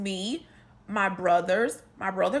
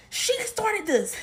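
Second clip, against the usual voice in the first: slow, higher crying whine; mock crying; 9 semitones higher, slower than usual. Mom complaining about the sister in a mock crying voice. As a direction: whimper it through mock tears.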